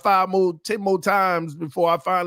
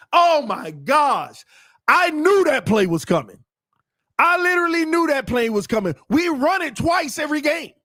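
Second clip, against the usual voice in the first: higher, exasperated outburst; exasperated disbelief; 11 semitones higher, 3 dB louder than usual. Real, not acted. Commentator watches the predicted play fail, exasperated. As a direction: protest that you saw it coming.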